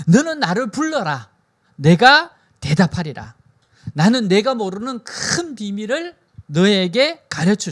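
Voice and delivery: loud, drawn-out proclamation; emphatic divine promise. Acted. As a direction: proclaim God's promise slowly and forcefully. Voices God's promise emphatically. (힘주어 천천히 선포하는 하나님의 말씀)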